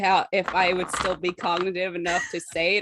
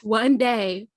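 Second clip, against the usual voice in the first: halting, rambling tipsy confession. Acted. High character struggles to tell story.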